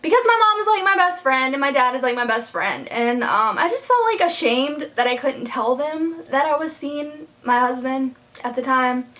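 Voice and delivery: real emotion rising in the voice, close to tears; getting emotional. Real, not acted. Vlogger on her mom being her best friend, getting emotional. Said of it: "I'm gonna get emotional again".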